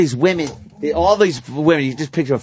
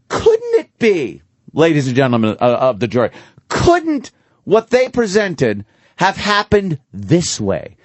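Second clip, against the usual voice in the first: defense lawyer voice; 2 semitones lower than usual. Acted. Acting defense lawyer to jury.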